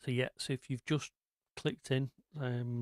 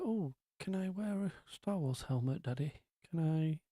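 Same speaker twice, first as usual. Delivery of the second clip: light, higher put-on posh kid asking sweetly; lightly mock a well-spoken little child begging; 4 semitones higher than usual. Dad mimicking his kids asking for a Star Wars helmet, mild posh voice. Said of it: "they're not posh".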